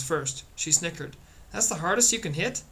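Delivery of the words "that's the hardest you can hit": higher, mocking question; snooty taunt. A narrator's reading. Girl snickers at the boy's punch, snootily taunting. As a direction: taunt him from above. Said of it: "Snooty and grinning above him".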